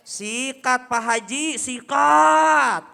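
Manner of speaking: loud slow cheering; neighbour egging on. Acted. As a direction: egg him on to fight. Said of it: "Apa kata Pak R T?".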